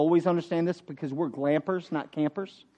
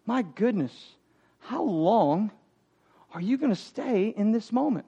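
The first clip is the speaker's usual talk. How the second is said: frustrated; 4 dB quieter than usual. Retold or imitated. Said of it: "do you hear the frustration in the Lord's voice".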